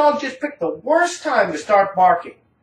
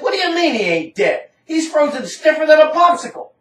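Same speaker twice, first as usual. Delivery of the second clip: incredulous retold shout; 6 semitones higher than usual. Answering Jeff that the dog is frozen, disbelieving shout. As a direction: yell back in disbelief.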